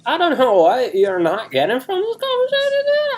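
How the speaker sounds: exasperated bro, very high and loud; worked-up squealing bro character; Chaz. Acted. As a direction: whine it indignantly as a dude-bro. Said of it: "we're doing characters this week".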